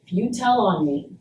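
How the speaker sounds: quiet, measured schoolyard threat; understated childhood threat; retold threat. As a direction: threaten them softly, keeping it controlled. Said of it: "and I threatened him".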